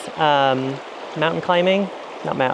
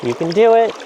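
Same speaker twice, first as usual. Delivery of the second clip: self-cheering; 6 semitones higher, 5 dB louder than usual. Real, not acted. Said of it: "cheering self on".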